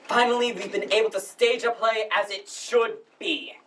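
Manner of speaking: formal, halting welcome speech; lightly pompous drama society director addressing the house. Acted. Drama society head welcomes audience to the spring production, formal speech. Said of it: "that was the speaker's monologue from the play".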